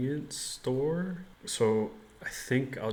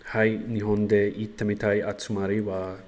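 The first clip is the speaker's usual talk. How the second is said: careful learner Japanese; japanese learner accent; 5 dB louder than usual. Shown as a demonstration. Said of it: "I think I can just answer".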